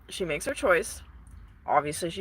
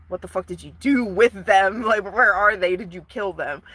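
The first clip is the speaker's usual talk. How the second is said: exasperated, louder confrontation; mock alarmed demand; 5 dB louder than usual. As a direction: demand answers, acting appalled. Acted Persian confronting the Phantom.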